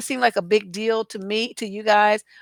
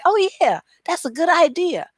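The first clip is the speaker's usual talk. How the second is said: higher, louder, lightly voiced eager reader; mock delighted viewer; 9 semitones higher, 4 dB louder than usual. Imagining a viewer reading a tip, mock delighted. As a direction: chirp it like a viewer who just got an idea.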